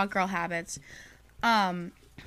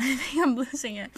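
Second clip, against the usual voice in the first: laughing, slightly higher pitch; losing my mind; 3 semitones higher than usual. Real, not acted. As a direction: giggle through it like you're cracking up. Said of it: "That I sound so deranged right now".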